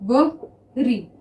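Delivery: drawn out. Shown as a demonstration. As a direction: stretch वरी very slowly, every sound held. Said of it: "ध्यान से सुनिए". (वरी को बहुत धीरे खींचकर बोलें)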